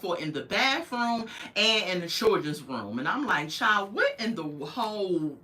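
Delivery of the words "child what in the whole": laughing through the words. Real, not acted. Vlogger laughing at husband's hidden cameras, laughing. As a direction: break into laughter mid-question.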